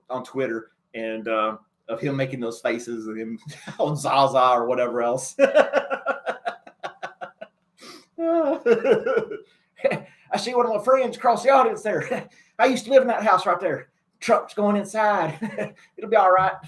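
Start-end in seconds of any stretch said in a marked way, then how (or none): 5.4-16.5 folksy Bush chatting at the inauguration; George W. Bush impression. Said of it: "impersonation of George W. Bush".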